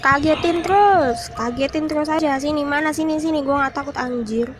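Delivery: irritated, daring the ghost; annoyed taunting. Real, not acted. Taunting the ghost after scares.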